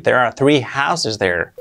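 slow clear model. Shown as a demonstration. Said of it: "Hay tres casas ahí".

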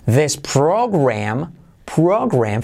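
"program" slowly, lips rounded on the R; U after R. Shown as a demonstration. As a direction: draw out "program" with a U-coloured R. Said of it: "fíjate la U después de la R". ("program" despacio, con U tras la R)

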